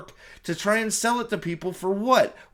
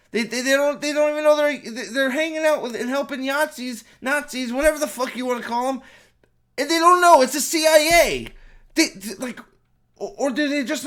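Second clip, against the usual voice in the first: rising, much louder incredulous rant; higher, louder disbelieving rant; exasperated rant; 6 semitones higher, 5 dB louder than usual. Real, not acted. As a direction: build to a frustrated outburst. Ranting about the CIA in movie.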